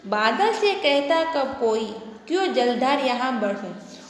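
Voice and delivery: slow, measured reading of a poem line; slow sing-song classroom verse; poem recitation. Shown as a demonstration. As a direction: recite it slowly for the children. Teacher reciting the next verse.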